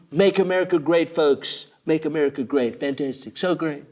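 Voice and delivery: hint of rally Trump; Trump impression. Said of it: "Trump ... with his".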